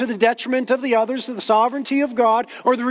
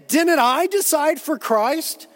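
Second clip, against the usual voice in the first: higher, slow indignant question; raised-pitch, drawn-out objection; 6 semitones higher, slower than usual. Acted. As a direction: protest as if your choice were being denied. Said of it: "somebody asks indignantly".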